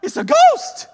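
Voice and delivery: shrieking high and loud in panic; frightened shout. Acted. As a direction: cry out as if you've seen a ghost. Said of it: "they go".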